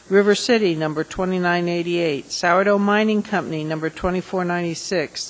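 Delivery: steady, measured reading of names and numbers, each number falling; clerk-like recitation, name then number, every line dropping at the end; formal list reading. Real, not acted. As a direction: read the long memorandum into the record, item by item. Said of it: "I'm going to read a very, very long memorandum".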